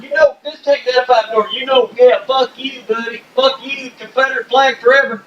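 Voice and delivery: high, twangy mock hick voice; hammed-up southern redneck jeering; redneck impression. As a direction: play a hostile southern fan yelling at a Yankee. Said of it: "that was exactly it. That was very good".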